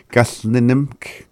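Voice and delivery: "Gasnenimk" with the first nim reduced to a brief n; rapid-speech reduction. Shown as a demonstration. Teacher shows learners how rapid speech shortens it, reduced first nim. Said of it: "It's kinda like that".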